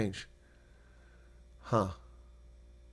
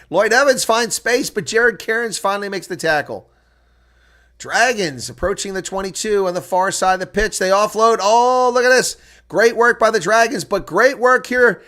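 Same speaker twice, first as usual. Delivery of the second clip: much higher and louder, near shouting; excited play-by-play; 10 semitones higher, 10 dB louder than usual. Acted. Commentator calling the Dragons' attack to viewers, near-shouted play-by-play. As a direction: ride the attack with rising excitement. Calls attacking phase live.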